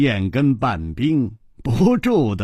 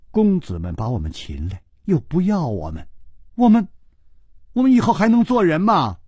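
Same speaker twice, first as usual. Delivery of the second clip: near tears; 3 semitones higher than usual. Acted. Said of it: "说着说着眼睛就红了". (红着眼、快要哭出来地说)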